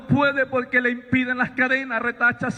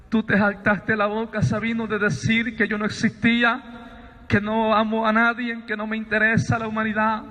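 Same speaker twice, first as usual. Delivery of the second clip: measured, solemn voice with long pauses; voice from the light. Retold or imitated. Voice tells Sabino why it has come, measured and solemn. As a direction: set each statement apart gravely. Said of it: "Me dice".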